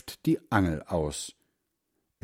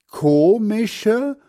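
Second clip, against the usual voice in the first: put-on much higher, louder puzzled old man; mishearing grandfather; 12 semitones higher, 7 dB louder than usual. A narrator's reading. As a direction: ask back, having misheard. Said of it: "fragt Großvater".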